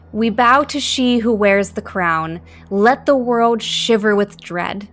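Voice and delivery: slow, measured verse reading; poem recital. Acted. Young wizard reads the opening incantation aloud, slowly. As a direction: intone the verse like a ritual.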